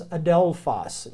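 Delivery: adelphos said slowly, a-DEL-phos; slow teaching pronunciation of adelphos; slow careful adelphos. Shown as a demonstration. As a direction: spell out adelphos slowly for learners. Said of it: "First word is".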